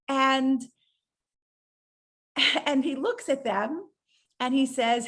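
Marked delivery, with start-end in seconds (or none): none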